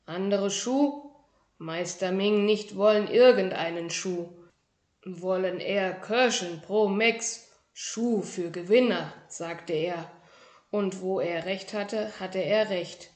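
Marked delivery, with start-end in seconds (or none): 0.0-9.1 proud little kung fu master. Acted. Tiny shoe-dwelling master introduces himself to a boy, proudly. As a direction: announce your grand title with dignity. Ming voiced.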